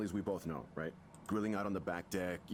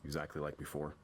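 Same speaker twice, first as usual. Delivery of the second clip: bitter and dismissive; 6 semitones lower than usual. Acted. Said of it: "He wasn't happy with that".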